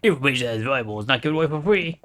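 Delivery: hollow rattling skeleton voice; skeletal voice. Acted. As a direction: speak like a cackling bony skeleton. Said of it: "Why am I giving him a skeletal voice?".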